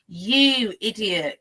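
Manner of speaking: slow, drawn-out exasperation; exasperated scorn. Retold or imitated. Reacting to a reckless dog handler, exasperated scorn. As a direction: stretch it out, scornfully unimpressed.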